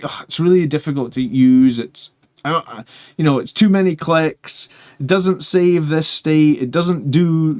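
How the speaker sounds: grumbling user, stretched-out complaints; mock complaining. Imagined user faulting the damage calculator, mock complaining. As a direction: list gripes like a fed-up user.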